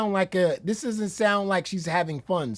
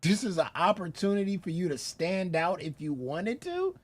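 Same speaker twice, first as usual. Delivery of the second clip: incredulous echo; 5 dB quieter than usual. Retold or imitated. Throws other speaker's words back.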